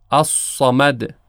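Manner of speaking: الصمد with a heavy, rounded ص; الصمد said slowly with a full ص; emphatic saad. Shown as a demonstration. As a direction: slowly stress the thick ص in الصمد. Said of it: "مثالهایی رو که مشتمل بر حرف صاد هست".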